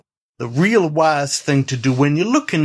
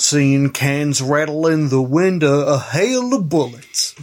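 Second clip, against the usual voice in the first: pondering cowboy. Acted. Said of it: "the voice Youth is doing".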